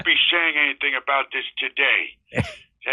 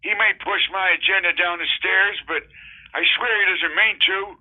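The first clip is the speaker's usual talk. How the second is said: pleading Biden impression; 2 semitones higher than usual. Biden defends Manchin, pleading.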